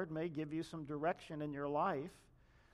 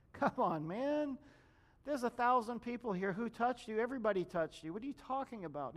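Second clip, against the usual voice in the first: higher, exasperated come-on-man disbelief; incredulous disciples; 5 semitones higher than usual. Retold or imitated. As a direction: scoff at the question, half laughing.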